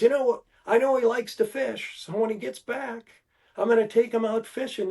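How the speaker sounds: a high, cheery broadcaster offer; imitating Uecker. Uecker on air promising the bat boy fishing, high mock announcer. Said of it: "he says".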